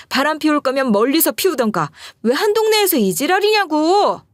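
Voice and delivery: angry, rising to high shrill-free yell; fuming wife's rant. Retold or imitated. Wife scolding her husband's mistress, fuming. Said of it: "본처가 씩씩거리면서 이랬다는 거예요".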